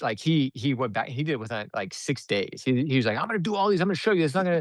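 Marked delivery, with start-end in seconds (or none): 3.2-4.6 eager determination. Retold or imitated. Client vows to prove himself.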